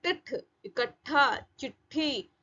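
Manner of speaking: इकट्ठा with a half retroflex t held into aspirated th; joined consonants. Shown as a demonstration. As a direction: stop on the half ट in चिट्ठी, then release ठ. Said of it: "आधा टा और ठ".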